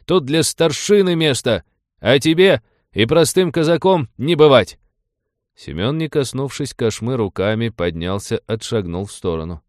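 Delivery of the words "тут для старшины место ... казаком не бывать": higher, louder working himself into a rage; young noble forcing himself into fury; forced anger. A narrator's reading. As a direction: whip himself up, shouting. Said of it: "выкрикнул боярич, стараясь разъярить сам себя".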